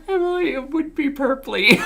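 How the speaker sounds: high, squawky puppet voice; cartoon voice. Player practising for a game character, high cartoon voice. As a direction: pitch it way up, like a puppet.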